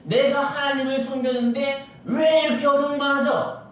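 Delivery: complaining sinner. Acted. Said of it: "악한 사람들의 행동이 뭐라 하냐면".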